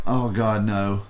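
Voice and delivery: low, understated dismay; retold dread. Booth guy asked to sell one, resigned dread. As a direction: groan the refusal lightly, pitch sinking.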